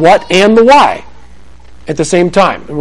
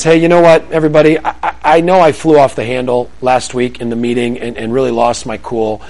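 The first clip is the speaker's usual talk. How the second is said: low, subdued confession, trailing softer; earnest apology to colleagues, speeding up at the end; mock-sincere office apology, pitched down; confessing coworker; 6 semitones lower, 3 dB quieter than usual. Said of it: "some guy says".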